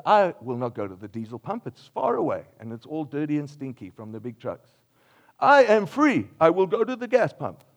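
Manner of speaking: hammed-up self-righteous refusal; mock defiance. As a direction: proclaim it like a stubborn customer. Acting out a stubborn driver.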